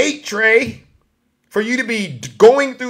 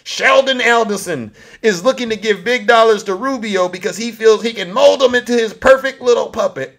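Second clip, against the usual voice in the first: lightly mimicked politician, pitched up; Donald Trump; 5 semitones higher than usual. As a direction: quote him in a higher, mocking voice. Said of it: "This is how he talks".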